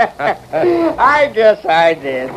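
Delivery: slow chuckle. Acted. Slow laughing agreement.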